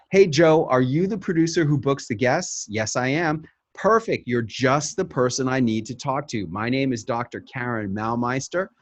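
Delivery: upbeat pitch to a producer; model pitch call. Shown as a demonstration. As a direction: sell the segment eagerly. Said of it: "This is how it should sound".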